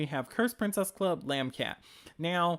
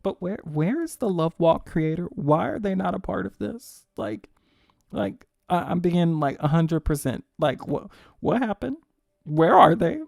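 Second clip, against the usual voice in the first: right in your ear; 8 dB louder than usual. Real, not acted. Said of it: "come close to the mic, like, let's whisper so Webtoons doesn't hear".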